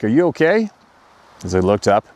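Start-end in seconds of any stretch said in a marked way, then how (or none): 0.0-0.7 put-on concerned old man. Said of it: "I heard a man's voice ask".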